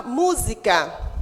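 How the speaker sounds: "música" with weight on the mu; stress on MU. Shown as a demonstration. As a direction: lean on the first syllable of "música". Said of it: "Sílaba tônica é o mu". ("música" com ênfase no mu)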